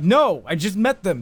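drawn-out protest, pitch swooping; emphatic denial. Acted. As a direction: stretch out an indignant mock "no". Answer repeated, now emphatic.

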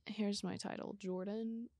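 whispered announcement; whispering. Real, not acted. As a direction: breathe it out like a secret. Announcing joke title.

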